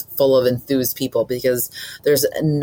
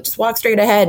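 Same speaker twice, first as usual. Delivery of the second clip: higher, quick-hit movie quote; quoting a film line; 8 semitones higher, 4 dB louder than usual. Retold or imitated. Co-host quoting a favourite Hooper scene, playful movie quote. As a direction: lift it into a quoted character line.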